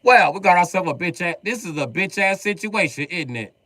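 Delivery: cartoonish British gamer voice; mock British. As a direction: lord it over the lobby in a fake British accent.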